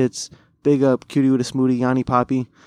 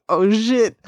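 high surprised oh shit; 9 semitones higher than usual. Retold or imitated. Surprised at girlfriend's reply.

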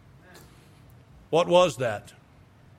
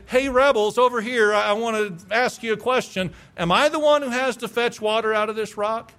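fed-up Moses; 5 semitones higher than usual. Retold or imitated. Preacher imitating fed-up Moses scolding the grumbling people. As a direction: bark it like a leader at the end of his rope. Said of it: "probably not the tone that Moses used".

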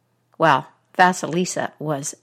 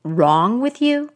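sharp, higher demand from the witch; old witch sharply questioning the silent girl; 6 semitones higher than usual. Acted. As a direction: snap the question at her. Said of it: "said sharply".

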